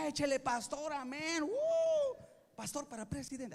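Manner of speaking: mock cheering. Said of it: "Las mujeres era para que dijeran".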